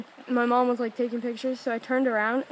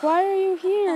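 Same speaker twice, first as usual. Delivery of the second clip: mock surprise; 7 semitones higher, 4 dB louder, slower than usual. Retells her surprised question to Callum.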